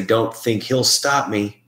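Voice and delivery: slow, drawn-out replay of a heard voice; imitating the recording. Replaying a spirit box phrase for the group, slowly. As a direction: drag it out word by word like a faint recording. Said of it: "I hear someone say".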